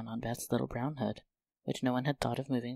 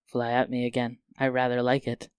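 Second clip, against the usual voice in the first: louder playful teasing; mischievous; 6 dB louder than usual. Acted. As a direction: tease her cheekily. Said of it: "looking mischievous".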